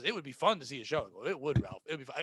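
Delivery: Eddie Haskell voice. Retold or imitated. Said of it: "both talking like Eddie Haskell's".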